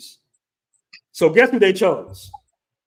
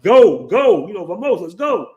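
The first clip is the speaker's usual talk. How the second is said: retold urgent shout; 3 semitones higher, 5 dB louder than usual. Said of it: "I'm like".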